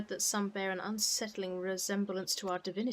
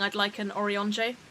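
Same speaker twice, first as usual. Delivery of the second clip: mock posh; 4 dB louder than usual. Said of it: "You're just saying it in a posh way".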